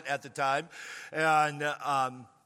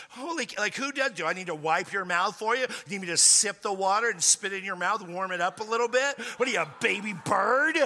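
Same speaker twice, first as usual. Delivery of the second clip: put-on roast her like a kid; mocking jab; 3 semitones higher than usual. Mocking his date at the table, teasing ridicule.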